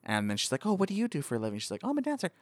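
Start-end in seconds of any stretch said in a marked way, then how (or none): 0.7-1.6 lady's lines raised high, mildly acted; a light, high take on the first lady. Voicing the first lady in dialogue. 1.8-2.3 a dancer's line pitched very high; high voice for the lady. Retold or imitated. Voicing the first lady in dialogue.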